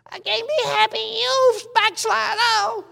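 high, slow lamenting mother voice; fretting mama.

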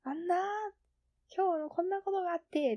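retold loud chatter. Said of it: "大声で喋るんよ".

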